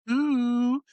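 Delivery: high, slow, prissy impression of a friend; mocking a friend's voice about chocolate sauce and cinnamon. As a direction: mimic her smug Canadian boast, high and drawn out. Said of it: "I have to say it like that".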